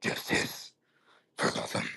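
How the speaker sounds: hushed whisper with weight on each word; very soft whispered superhero voice; Batman. Acted. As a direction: whisper it slowly, pausing mid-line. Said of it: "that was bad. Hold up, hold up".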